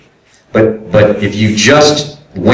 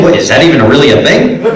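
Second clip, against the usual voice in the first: laughing disbelief; 5 semitones higher, faster than usual. Real, not acted.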